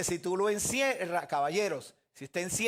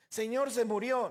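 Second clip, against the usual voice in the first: higher-pitched voice of a worried follower; urgent report; 5 semitones higher than usual. Acted. Follower tells the Lord he died, urgent report. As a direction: bring the bad news in a raised pitch.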